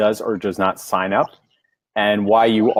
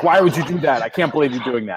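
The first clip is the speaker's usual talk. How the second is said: put-on half-hearted scolding yell, pitched high; 5 semitones higher than usual. Describing a whiteboard sales pitch to customers: imitating yelling at customers. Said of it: "I yell at my customers, like".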